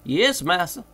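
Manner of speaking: high dialect voice calling down; Jupiter's voice. A narrator's reading. Jupiter answering.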